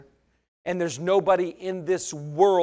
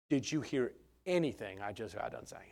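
exasperated retort; 8 semitones lower, 14 dB quieter than usual. Retold or imitated. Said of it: "I said".

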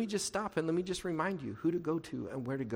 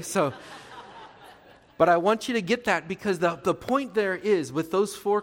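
laughing; 4 semitones higher, 6 dB louder than usual. Real, not acted. Laughs after mock threat.

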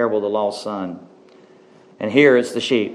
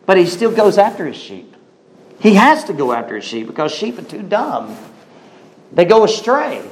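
higher-pitched preacher's emphasis with swooping falls; emphatic preaching; 6 semitones higher, 3 dB louder than usual. Acted. Preacher tells the congregation about wandering sheep, emphatic preaching. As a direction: drive the point home from the pulpit.

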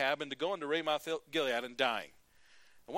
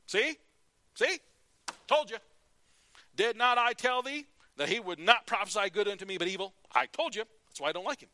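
louder, higher "told you" gloat; gloating king; 6 semitones higher, 7 dB louder than usual. Retold or imitated. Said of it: "Ahab turns to Jehoshaphat".

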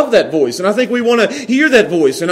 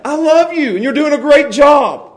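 higher-pitched, affectionate praise; loving dad; 5 semitones higher than usual. Retold or imitated. Dad offering his kids the kind voice, loving. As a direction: imitate a dad cheering on his kid. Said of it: "which voice they wanted to hear from their dad".

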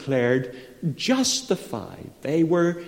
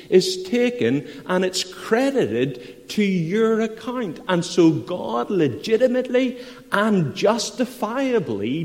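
raised, earnest sermon delivery; emphatic preaching; 6 semitones higher than usual. Acted. Preacher explaining righteousness by faith to a congregation, emphatic preaching. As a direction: preach it higher, leaning on the key words. Preacher warms to his main point.

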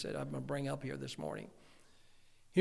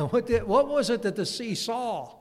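asks it through laughter, louder; laughing; 6 semitones higher, 5 dB louder than usual. Real, not acted. Preacher still laughing at his own pun. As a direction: keep laughing through the question.

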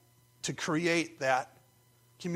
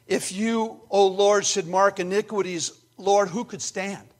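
raised, pleading preacher's cry; acted plea to God, pitched up; crying out for mercy; 4 semitones higher, 5 dB louder than usual. Psalmist cries out to God for mercy, pleading cry. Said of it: "he cries out to God for mercy".

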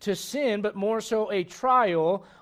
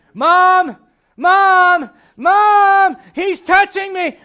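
put-on high, loud whiny kid; whiny tattling little sibling; 9 semitones higher, 14 dB louder, much slower than usual. Child tattling to mom.

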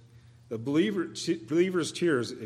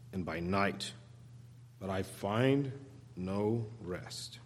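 fading lament; 5 semitones lower, 9 dB quieter, slower than usual. Acted.

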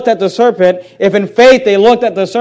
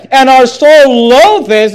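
whiny complaint; 4 semitones higher, 6 dB louder, slower than usual. Retold or imitated. Voicing the people's complaint.

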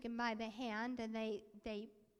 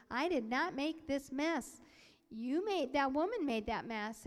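mildly indignant protest; 2 semitones higher, 5 dB louder than usual. Retold or imitated. Teenager protests to the pastor, indignant. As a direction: push the blame back, word by word.

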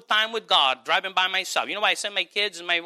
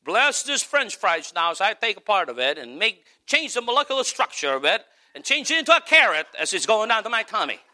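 mock prayer over junk food; Tim Hawkins; 3 semitones higher than usual. Preacher quoting a comedian's joke blessing over fries, comic imitation. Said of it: "Tim Hawkins likes to say it this way".

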